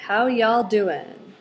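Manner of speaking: slow, easy Texas greeting; a slow, mild Texas drawl on a friendly hello. Shown as a demonstration. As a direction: greet them like a Texas grandmother. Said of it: "in my grandmother's dialect, which is Texas dialect".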